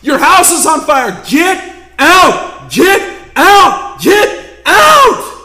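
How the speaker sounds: building, high, full-throated shout of get out; frantic screaming. Retold or imitated. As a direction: yell at the camera to save them. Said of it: "screaming into the camera".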